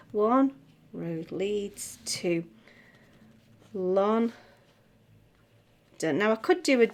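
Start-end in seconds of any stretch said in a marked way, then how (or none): 0.1-2.4 ONE and leads stressed on the beat, slowly spoken; teacher beats out the word accents slowly; rhythmic accents. Shown as a demonstration. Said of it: "the musical accents that must fit in with the accents of the words".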